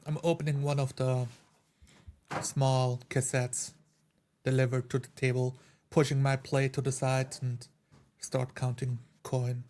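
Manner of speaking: ordinary delivery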